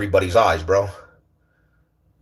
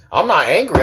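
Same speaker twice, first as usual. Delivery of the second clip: emphatic denial; 5 semitones higher than usual. Real, not acted. Repeats denial, more emphatic.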